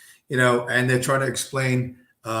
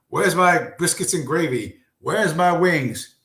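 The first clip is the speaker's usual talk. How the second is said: raised, drawn-out demand; mock indignant customer; 5 semitones higher, 3 dB louder than usual. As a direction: play a woman demanding her food. Retold woman demanding her order.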